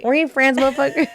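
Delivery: high, amused outburst; a high mock-indignant jab; laughing retort. Real, not acted. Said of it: "joking retort, high".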